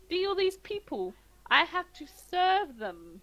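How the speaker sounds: patronising barkeep. Acted. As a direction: speak to him like a small child. GM voices the barkeep.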